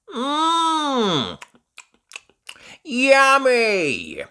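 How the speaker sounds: high, loud, thrilled tasting; delighted Peppa. A narrator's reading. Peppa tastes a tomato and raves, high and delighted. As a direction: rave about the tomato. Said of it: "says Peppa, tasting one".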